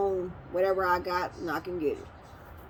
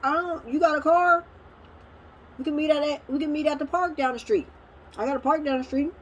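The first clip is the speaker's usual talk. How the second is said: exasperated retort; 8 semitones higher than usual. Real, not acted. Arguing back at her dad.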